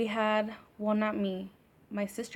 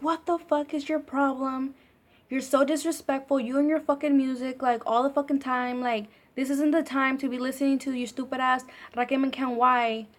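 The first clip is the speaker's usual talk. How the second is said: a higher, louder mock tirade from the annoyed sister; angry yelling sister; 4 semitones higher, 4 dB louder than usual. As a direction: scold like a sister woken at night. Sister yelling at woken sibling.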